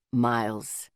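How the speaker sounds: low, even, calm; oddly calm. A narrator's reading. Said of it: "Zeke said in an oddly calm voice".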